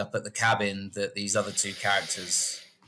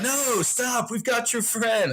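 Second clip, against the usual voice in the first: pleading hick; 13 semitones higher, slower than usual. Retold or imitated. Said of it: "and he's like".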